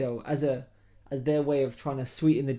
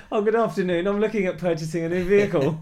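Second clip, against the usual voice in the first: polite customer service voice; phone voice; 5 semitones higher, 9 dB louder than usual. Retold or imitated. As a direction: put on your politest phone voice. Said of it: "I went there with my phone voice".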